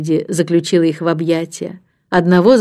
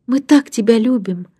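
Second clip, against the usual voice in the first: put-on higher girlish voice, tender; earnest affection; 5 semitones higher than usual. A narrator's reading. Антея presenting nanny's gift, earnest affection. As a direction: tell her sincerely how loved she is. Child declaring love to nanny.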